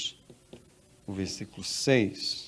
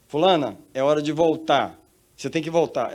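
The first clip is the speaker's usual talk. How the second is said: raised, higher summons; commanding voice from above; 4 semitones higher, 7 dB louder than usual. Acted. Heavenly voice telling the woman to return, loud and firm. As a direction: announce it loudly, as an order. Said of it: "ela ouvia uma voz dizendo pra ela".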